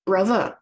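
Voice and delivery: Brother with the TH said as a V, bruvver; Cockney bruvver. Shown as a demonstration. Teacher repeating the Cockney brother, bruvver. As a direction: say Brother with a V in the middle. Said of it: "T H sounds can become V's and F's".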